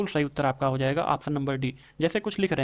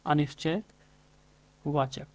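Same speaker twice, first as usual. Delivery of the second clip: अनिश्चयवाचक stretched out very slowly, each syllable apart; teacher's slow dictation of अनिश्चयवाचक; slow syllable-by-syllable repeat; much slower than usual. Shown as a demonstration. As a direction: spell out अनिश्चयवाचक slowly for the students. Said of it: "कैसा?".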